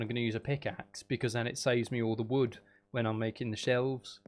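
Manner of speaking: lightly put-on Scouse, Birmingham and Australian mix; a jokey accent mash-up; muddled mixed accent. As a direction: wander between Scouse, Brummie and Australian accents. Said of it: "I don't even know what accent".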